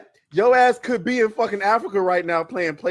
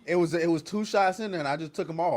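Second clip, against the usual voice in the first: quiet; 5 semitones lower, 13 dB quieter than usual. Real, not acted. Quiet after the shots.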